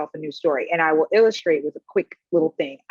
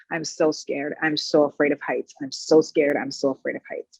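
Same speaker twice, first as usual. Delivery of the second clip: anxious inner voice; 5 semitones lower than usual. Retold or imitated. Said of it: "in my head is this playing on a tape on repeat".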